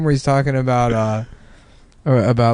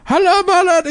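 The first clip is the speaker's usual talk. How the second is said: very high, mock Arab accent; squeaky put-on Arab accent; Arab accent impression. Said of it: "doing, like, a Arab voice".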